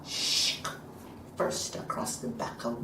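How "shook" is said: voiceless whip swish; short hissed whip sound; whip crack. A narrator's reading. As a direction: imitate a lash cutting the air. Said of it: "came with a whip".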